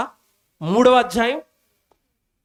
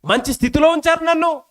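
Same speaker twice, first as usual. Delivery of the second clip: contented prayer; 7 semitones higher than usual. Pretend. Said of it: "contented prayer".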